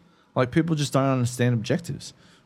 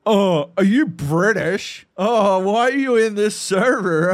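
loud, slow, high American caricature; mock American accent; 9 semitones higher, 5 dB louder, slower than usual. American asking a foreigner why he's on the server, mock American voice. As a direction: whine it in an exaggerated American drawl. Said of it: "one person will be like".

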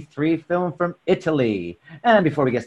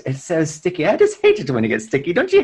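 lightly acted movie line, quick; a hint of actress delivery; quoting film line; 4 semitones higher, 3 dB louder, faster than usual. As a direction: hurry through a mock B-movie line. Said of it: "and one of her lines".

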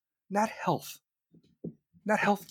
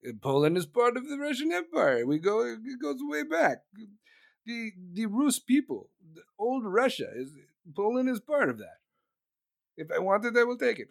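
Putin impression; 3 semitones higher than usual. Acting Putin claiming Poland.

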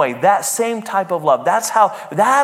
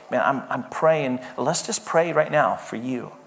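softer, lower, sincere; gentle parent; 6 semitones lower, 6 dB quieter than usual. Acted. Parent holding a child's hand, offering prayer, gently sincere. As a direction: quietly offer it, voice dropped low.

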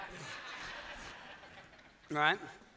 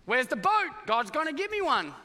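mock questioning; 5 semitones higher than usual. Family asks, Noah answers.

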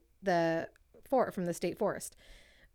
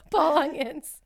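slow, loud, raised hype announcement; announcer intro; 6 semitones higher, 6 dB louder, slower than usual. Pretend. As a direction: announce him like a champion entering the ring. Repeating the hero's name.

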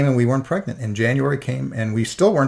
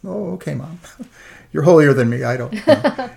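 high, laughing brush-off to mom; amused mock reply to mom; 5 semitones higher, 5 dB louder than usual. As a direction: tease her through a laugh.

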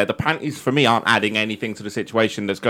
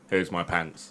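put-on coy girl voice; 8 semitones lower, 12 dB quieter, slower than usual. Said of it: "in that voice as well".

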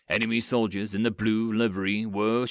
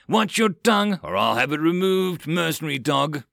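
high, louder contemptuous threat; angry threat; 5 semitones higher, 4 dB louder than usual. A narrator's reading. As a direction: warn him off like a dog. Aide threatens mercenary.

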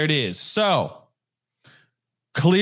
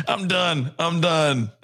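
higher, through the tail of a laugh; laughing, giving up; 4 semitones higher, slower than usual. Real, not acted. Streamer cracking up at own accent, laughing surrender. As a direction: say it while recovering from laughter.

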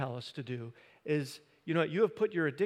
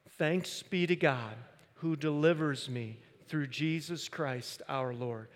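slow, steady group recitation; 1 slow congregational recitation; slower than usual. Shown as a demonstration. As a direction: recite it together, slowly. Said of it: "Let's, let's say that together".

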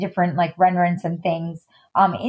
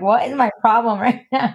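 laughing through teary self-mockery; laughing at herself; 3 semitones higher than usual. Real, not acted. Guest laughing at her own tears in the interview, laughing. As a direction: laugh it off mid-question.

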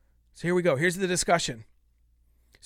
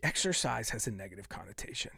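whisper; 9 semitones lower, 9 dB quieter than usual. Real, not acted. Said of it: "sigh then whispered point".

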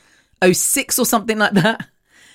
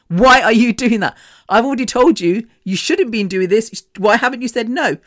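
higher, pressing reproach; retold scolding; 4 semitones higher than usual. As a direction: imitate a friend demanding an explanation. Retold friend scolding her.

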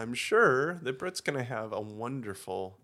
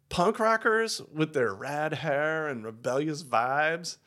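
put-on Valley Girl voice; 3 semitones higher, 3 dB louder than usual. Valley Girl answer to question.

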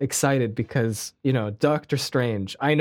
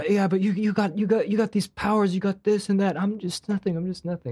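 mock a guy feeling useless next to his friends; hammed-up sad sack trailing off; mopey self-pity; 6 semitones higher than usual. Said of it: "And he's like".

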